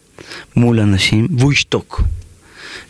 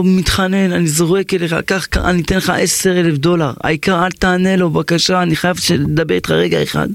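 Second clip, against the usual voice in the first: higher, begging voice; urgent pleading; 6 semitones higher than usual. Acted. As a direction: plead urgently, offering anything. Man offers money, pleading.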